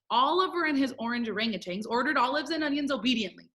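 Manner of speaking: quick, careful recitation; fast tongue twister. Shown as a demonstration. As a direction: get through the whole twister without stopping. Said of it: "say it together really fast".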